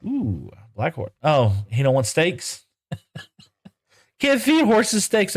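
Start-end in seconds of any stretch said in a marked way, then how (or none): 4.2-5.3 laughing. Real, not acted. Laughing at horse refusing steak.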